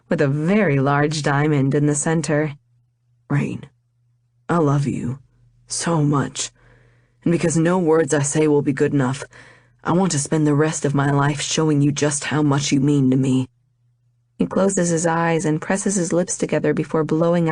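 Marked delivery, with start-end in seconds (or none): 3.3-13.5 a lower male voice, sincere and earnest; lightly voiced lover proposing. Vaughn proposing to Rain at the wedding, lightly voiced sincere man. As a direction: pour your heart out as the man proposing.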